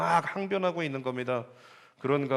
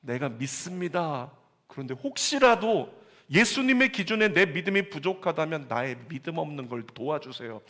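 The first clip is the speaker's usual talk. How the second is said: humble plea. Retold or imitated. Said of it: "이 아버지가 끝에 뭐라고 했어요?".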